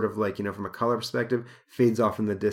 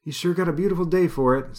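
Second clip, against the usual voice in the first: tall man voice; 8 semitones higher, 4 dB louder than usual. Acted. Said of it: "says the tall man".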